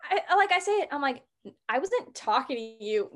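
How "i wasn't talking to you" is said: joking dismissal. Retold or imitated. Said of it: "I don't talk like that".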